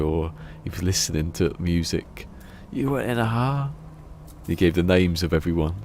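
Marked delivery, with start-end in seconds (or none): 2.7-3.7 higher, altered mock voice; incredulous Greg. Greg Davies doubting the driver again, mock incredulous. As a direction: ask it in sharper disbelief.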